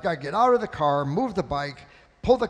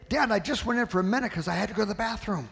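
put-on quick, higher little-boy excuse; child pleading; 4 semitones higher, faster than usual. Son excusing himself to his father, quick and pleading. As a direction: plead fast like a kid caught out. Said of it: "the child says in his own defense".

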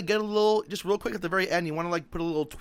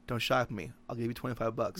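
mock whisper; 6 semitones lower, 9 dB quieter than usual. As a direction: lower and softer, a voiced pretend whisper to the eel. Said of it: "I would whisper to it".

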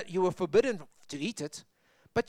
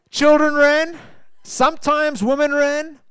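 higher, louder, laughing through it; 8 semitones higher, 8 dB louder than usual. Real, not acted. Preacher amused at his own point, laughing aloud. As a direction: chuckle as you list who ran.

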